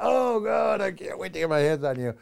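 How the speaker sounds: high, loud sputtering cartoon rage; cartoonish fury. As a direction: splutter like an enraged cartoon villain. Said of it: "putting our own twist on that".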